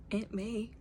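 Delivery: barely whispered name in grief. Acted. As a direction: breathe it out, heartbroken. Grieving Peter answers softly.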